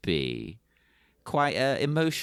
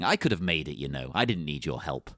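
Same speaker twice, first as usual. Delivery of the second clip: petulant woman; 9 semitones lower than usual. Retold or imitated.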